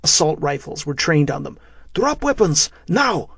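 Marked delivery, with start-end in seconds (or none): 1.9-3.3 put-on high, forceful Russian-accented order; Russian soldier barking orders. A narrator's reading. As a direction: command in a light Russian accent. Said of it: "heavily accented English".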